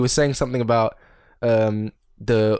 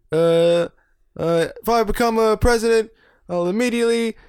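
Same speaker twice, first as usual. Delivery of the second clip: higher, pompous would-be president; mock dictator speech; 9 semitones higher, 3 dB louder than usual. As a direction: announce the cruel rule like a mock dictator. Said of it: "He was just like".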